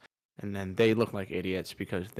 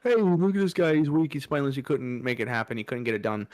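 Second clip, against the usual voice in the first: mock Republican taunt; 3 semitones higher, faster than usual. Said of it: "they could all say".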